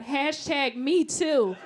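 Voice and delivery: slow, pointed hashtag; mock outrage. Comic reacts to Harvey Weinstein photo, slow pointed outrage. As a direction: spell it out like a protest slogan. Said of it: "I was like".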